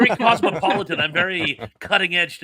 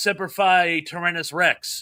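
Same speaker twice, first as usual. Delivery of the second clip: plain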